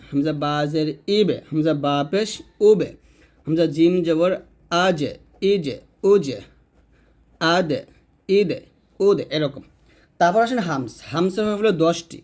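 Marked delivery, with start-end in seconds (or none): 1.2-2.9 ইবে, উবে with a light "e" echo; thin qalqalah. Shown as a demonstration. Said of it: "পাতলা করে বলতে হবে". 4.8-9.2 আজে, আদে with a light "e" echo; thin qalqalah. Shown as a demonstration. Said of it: "পাতলা করে বলতে হবে".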